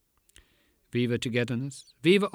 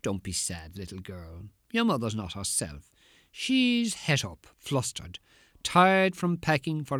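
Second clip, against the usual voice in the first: grown-up defender's voice. Pretend. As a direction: comfort her gently, hushed. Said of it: "in my special grown-up defender's voice".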